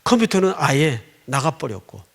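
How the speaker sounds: ordinary delivery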